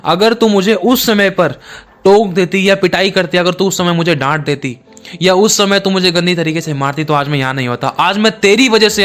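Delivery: a condemned son lashing out at his mother; scolding son. Acted. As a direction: blame her with rising heat. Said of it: "अपनी माँ को डांटते हुए".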